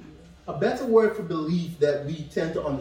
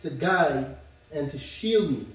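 rising, lifted phrases one by one; measured solemn reading; scripture reading. Acted. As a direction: read each word as a promise. Reads Psalm aloud.

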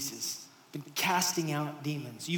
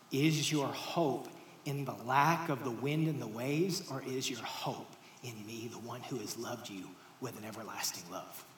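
fading softer toward the end; tender appeal; 4 semitones lower, 4 dB quieter than usual. Acted. Jesus tenderly asks disciples where their hope lies. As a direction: let the love land gently.

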